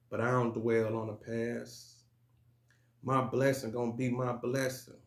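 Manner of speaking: slow, measured poetry recital with pauses between lines; deliberate spoken-word delivery; spoken word poem. Acted. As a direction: recite it like a motivational poem, weighting each phrase.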